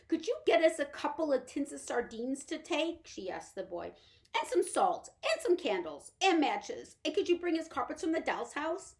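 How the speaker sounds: high, loud, pleading little woman; Homily pleading with Pod for the dollhouse; anxious little mother. Acted. Homily asking the boy.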